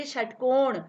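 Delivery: षटकोण with ष said with tongue curled back; retroflex sh. Shown as a demonstration. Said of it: "जैसे बोलिए".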